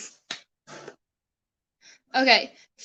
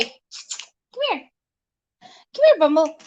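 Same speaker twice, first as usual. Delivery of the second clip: calling the dog; slower than usual. Real, not acted.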